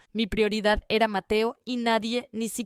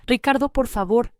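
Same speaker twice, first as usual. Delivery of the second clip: pleading, louder, a touch of tremble; voz temblorosa; 3 semitones higher, 7 dB louder than usual. A narrator's reading. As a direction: beg him as a mother on the doorstep. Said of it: "con la voz temblorosa". (súplica temblorosa y más fuerte)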